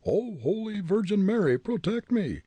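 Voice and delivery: high, loud Irish wail; panicked Irishman's cry; terrified howl. A narrator's reading. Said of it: "he howled".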